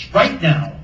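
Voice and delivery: loud follow-up demand; urgent yell. A narrator's reading. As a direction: yell it insistently. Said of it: "yelled Sarah".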